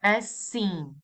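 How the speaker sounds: Assim with a sharp, clear s sound in the middle; hissed double s. Shown as a demonstration. Teacher demonstrating the double s in Assim. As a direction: stress the ss in Assim as a crisp hiss. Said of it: "you're going to produce a S sound".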